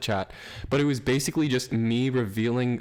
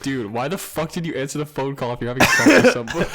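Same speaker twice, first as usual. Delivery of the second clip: laughing disbelief; 2 semitones higher, 6 dB louder than usual. Retold or imitated. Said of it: "I'm like".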